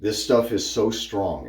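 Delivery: mock taken-aback exclamation, easing into slow emphasis; retold surprised reaction. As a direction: recall being struck by something, slowly. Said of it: "I went".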